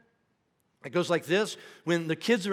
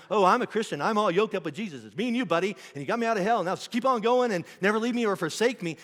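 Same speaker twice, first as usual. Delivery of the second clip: breezy, higher, louder self-satisfied mockery; mock smug Christian; 4 semitones higher, 3 dB louder than usual. Pastor mocking his own breezy faith, higher and louder. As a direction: play a cocky believer who takes God for granted. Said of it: "Here's how I live my life".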